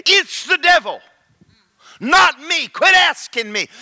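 high, loud, firm divine rebuke; voice of the Holy Ghost. Retold or imitated. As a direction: rebuke him with authority. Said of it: "the Holy Ghost said".

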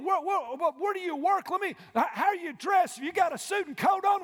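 mock nosy churchgoer. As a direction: sneer the questions like a snob at the door. Mocking judgmental churchgoers' questions.

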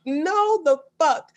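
appalled disbelief. Real, not acted. Cohost appalled by the poop confession, drawn out. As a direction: stretch it out in disbelief.

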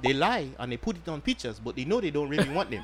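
put-on understated African accent, formal sales pitch. Host pitches condoms to female listeners, light mock African accent. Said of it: "You sound African right now".

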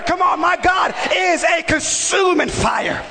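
rising, shouted preaching with long stretched words; preaching at full force. Acted. Preacher rousing his church, fiery shouted preaching. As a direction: whip the congregation into fire.

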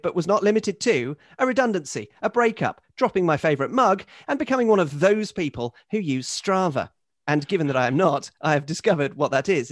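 measured, articulate reading of a letter; email read aloud. Acted. Host reads Henry's confessional email to co-hosts, formal read-aloud. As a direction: read it out with deliberate weight on each item.

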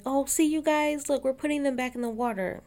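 high, preachy fake-nice voice; mock sweet. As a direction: chirp it like a smug do-gooder. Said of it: "and she's like".

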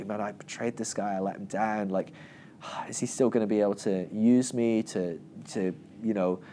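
low, soft, guilty musing; understated, subdued self-doubt; mild remorse. Acted. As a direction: fret quietly to yourself. Peter's guilty thoughts about Jesus.

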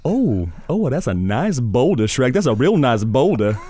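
pleading sidekick to his grumpy friend, in Donkey's voice; Donkey impression. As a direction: chatter at Shrek like an eager sidekick. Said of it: "Shrek and Donkey".

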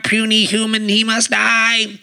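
slow menacing robot voice. Pretend. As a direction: threaten like a killer machine. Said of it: "Robot Voice".

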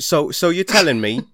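high, put-on London accent; hammed-up London lad accent; mock English accent. Asking the English co-host about the cast, mock English accent. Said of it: "I didn't know you were from England".

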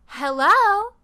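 imitating the ice cream truck's recording; creepy truck voice. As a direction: call out like a creepy loudspeaker greeting. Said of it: "every ten seconds it stops and it goes".

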